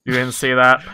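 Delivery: flat robotic monotone. Real, not acted. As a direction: say it like a machine. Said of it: "I did a robot voice there".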